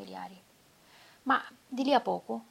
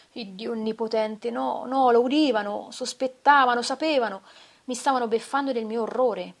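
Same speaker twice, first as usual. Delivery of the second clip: frantic outburst; 3 semitones higher, 9 dB louder than usual. Acted. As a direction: voice climbing in a paranoid frenzy. Narratore impazzito, sospetto dei funzionari. (assassino in preda al panico, sfogo frenetico e forte)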